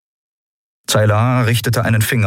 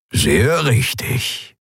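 very slow, sage agreement; lizard elder; 6 semitones higher, much slower than usual. Acted. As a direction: nod it out slowly and wisely. (langsame, weise Echse)

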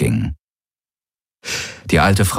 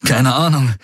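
strained grin; 6 semitones higher than usual. Acted. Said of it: "mit angestrengtem Grinsen".

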